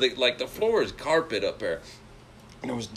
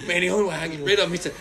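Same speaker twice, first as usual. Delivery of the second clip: laughing; 6 semitones higher than usual. Real, not acted. Laughing through the story.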